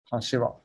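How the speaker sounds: Hashiwa said softly with the third Tokyo pitch pattern; Tokyo pitch accent demo. Shown as a demonstration. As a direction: model Hashiwa in Tokyo Japanese for a listener. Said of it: "like this".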